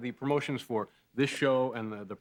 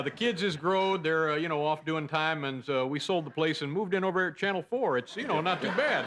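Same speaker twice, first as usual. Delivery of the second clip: dumb guy voice; 3 semitones higher than usual. Acted. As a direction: play it dim and content. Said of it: "This, by the way, is my dumb guy voice".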